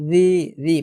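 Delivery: "রি" said "dhee", th as in "this"; tongue-tip "dhee" for "রি"; thin dhal. Shown as a demonstration. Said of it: "পাতলা করে".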